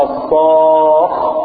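الصاخ sung slowly with the خاء held; drawn-out Quran word. Shown as a demonstration. Teacher showing the students the sukun, chanted slowly. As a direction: stretch the vowel and hold الخاء in الصاخ. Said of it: "هذه الخاء ساكنة اهي".

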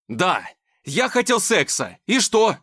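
high, loud defiant yell; defiant bellow. Acted. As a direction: roar it at her. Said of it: "проорал Никита".

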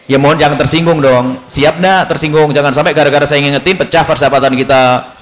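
low, careful plea to a friend; lightly acted tactful coaxing; gentle, sweet approach. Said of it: "Harus dengan cara yang manis".

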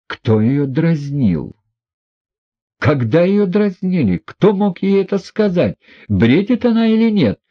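high, rising furious questions; trembling with anger. A narrator's reading. Lizaveta Prokofyevna rounds on everyone, trembling with anger. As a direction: shake with rage as you ask. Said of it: "Трепеща от гнева".

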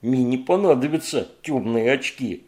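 loud gurgling monster voice. Acted. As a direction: bubble the words up like slime. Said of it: "ответил булькающий голос".

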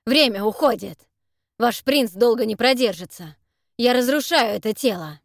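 loud, pressing urgency; urgent warning. Acted. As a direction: push him to hurry, loudly. Monster urging the necromancer.

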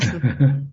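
brief, amused chuckle; short chuckle. Real, not acted. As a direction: chuckle briefly at the student's worry. Amused by student's fear of staying.

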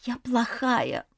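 slow, soft self-reproach; медленно и тихо, с упрёком себе; muttered to herself, slow and soft. A narrator's reading. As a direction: say it slowly and softly to herself. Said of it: "твердила она себе".

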